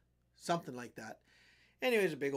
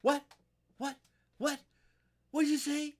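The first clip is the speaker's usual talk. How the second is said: mock tough guy, higher and louder; aggressive challenge; 10 semitones higher, 6 dB louder than usual. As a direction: bark it like a bar bully.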